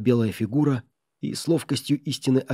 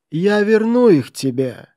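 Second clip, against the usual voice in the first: loud, high, slow piercing voice; sharp cry; 10 semitones higher, 7 dB louder, slower than usual. A narrator's reading. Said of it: "раздался резкий голос".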